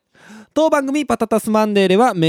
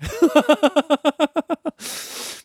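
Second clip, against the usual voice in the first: high bursting laugh at the memory; burst of laughter; 10 semitones higher than usual. Real, not acted. Recalling scalding 45-degree bath. (思い出し笑いの高い笑い声)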